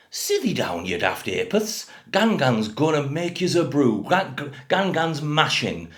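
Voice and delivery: high, loud, exaggerated mock-Nottingham accent; bad Nottingham accent. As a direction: send up a terrible Nottingham accent, drawn out and high. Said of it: "speaking to their kids and be like".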